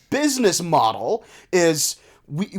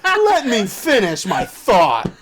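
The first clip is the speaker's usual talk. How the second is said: laughing; 4 semitones higher, 3 dB louder, much slower than usual. Real, not acted. Laughing while arguing with Sam.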